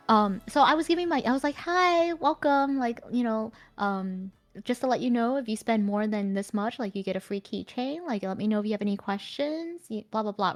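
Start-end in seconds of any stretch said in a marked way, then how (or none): 1.6-10.5 customer service voice. Retold or imitated. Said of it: "it's very customer service voice".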